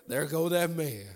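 hammed-up amazed disciple; mock amazement. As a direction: point him out in playful astonishment. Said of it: "they were shocked in amazement".

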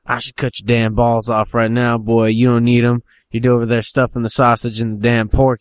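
mock threatening rant; hammed-up backwoods father's threat. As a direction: threaten the boy, rising as you go. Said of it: "he's threatening him".

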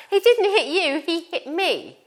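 high, loud outraged son protesting to mum; indignant son. Retold or imitated. Mother voicing her hurt son protesting, high and loud. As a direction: play the wronged older son, exasperated and loud.

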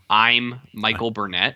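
slow mock self-introduction; stilted introduction. Annoying missionary introducing himself to Rambo, mock stilted. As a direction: mimic an unnatural, deliberate introduction. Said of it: "unnatural way to talk".

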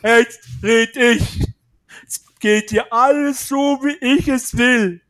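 loud, slow, domineering; bossy boss. Pretend. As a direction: act like the one in charge. Taking charge, bossy.

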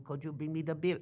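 mock Spanish-accented English; fake Spanish accent. Mimicking a tourist asking for the bill, fake Spanish accent. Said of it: "because you said it like that".

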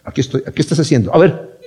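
lightly voiced suspicious cop; nosy cop checking up, murmured; mock policeman. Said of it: "como un policía así". (imitando un poco a un policía vigilante)

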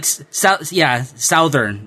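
Southern said slowly with a drawl; drawn-out Southern. Pretend. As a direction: stretch out Southern, laughing.

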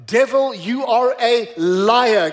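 slow, emphatic rebuke of the devil; preacher's slow, forceful rebuke; firm rebuke. Acted. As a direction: denounce the devil, word by deliberate word.

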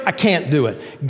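mock dejection, dropping away; depressed. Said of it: "Up, depressed".

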